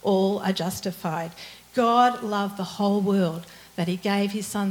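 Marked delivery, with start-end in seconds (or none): 0.0-1.3 "all" leaned on again, echoing; weight on all, gentle close; stress on ALL. Shown as a demonstration. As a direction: press the word all. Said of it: "all in two places".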